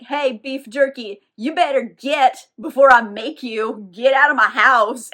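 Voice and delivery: slow, rising to loud warning; threatening. Retold or imitated. Marius ordering the vampire out of his house, menacing. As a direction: order him out, slow and firm.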